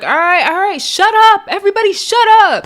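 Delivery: high, loud mock "shut up"; imitated shouted command. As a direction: act out silencing a noisy room, pitch jumping up. Acts out Rolly silencing the room.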